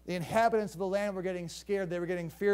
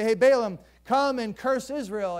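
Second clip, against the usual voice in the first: urgent hired plea; 3 semitones higher, 6 dB louder than usual. Acted. Midianites urging Balaam.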